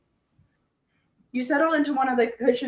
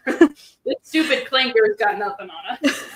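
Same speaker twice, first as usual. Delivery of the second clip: laughing. Real, not acted. Laughing taunt at robot.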